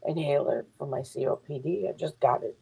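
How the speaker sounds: wheezing while talking; short of breath, wheezing; wheezy voice. Real, not acted. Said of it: "I can hear myself wheezing".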